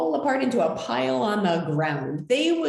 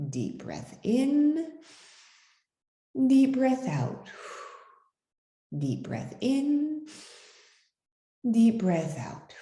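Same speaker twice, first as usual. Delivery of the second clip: calming breaths; 5 semitones higher than usual. Shown as a demonstration. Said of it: "number one of the rules and tools. Breathe deeply".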